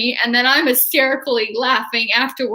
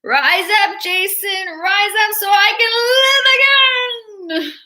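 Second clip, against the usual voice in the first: higher, commanding mother's call; Jason's mother; 9 semitones higher, 3 dB louder than usual. Retold or imitated. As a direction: urge her son to rise, eerie and high. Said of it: "I can imitate, um, Jason's mother's voice".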